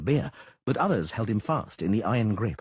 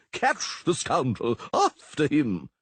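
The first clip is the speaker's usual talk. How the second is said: shouting orders; 6 semitones higher, 3 dB louder, much slower than usual. A narrator's reading.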